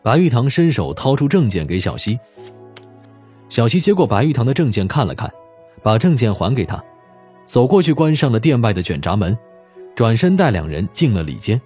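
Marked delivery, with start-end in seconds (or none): none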